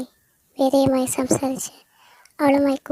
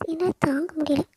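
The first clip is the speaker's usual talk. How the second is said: whispered despair; 3 semitones higher, 3 dB quieter than usual. Acted. Veda overwhelmed, whispering.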